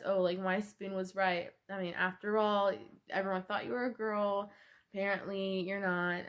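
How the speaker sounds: lightly sarcastic, dry remark; a touch of mock sweetness, teasing. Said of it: "in a sarcastic way".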